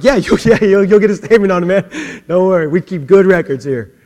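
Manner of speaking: loud, laughing, fast reassuring reply; laughing reassurance. Retold or imitated. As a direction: humor the man while barely holding back laughter. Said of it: "I'm like".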